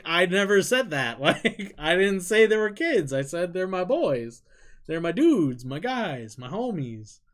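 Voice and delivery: defending yourself, half laughing; retold protest. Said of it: "And I'm like".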